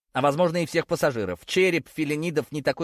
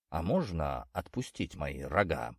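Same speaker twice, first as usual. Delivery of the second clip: low, soft, slow and meek; timid request; 8 semitones lower, 7 dB quieter than usual. A narrator's reading. Bull Zakhar meekly asks Iriska to let go of his horns. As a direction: ask shyly, afraid to bother her. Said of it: "скромно поинтересовался Захар".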